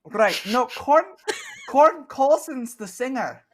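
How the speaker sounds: chirpy Scottish baker chatting; Scottish accent. Acted. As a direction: keep the Scottish shopkeeper going, high and chatty.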